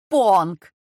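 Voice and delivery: loud yelled name; wife shrieking for the servant in terror; screaming. A narrator's reading. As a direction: she screams it at the top of her lungs. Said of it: "Милена орала".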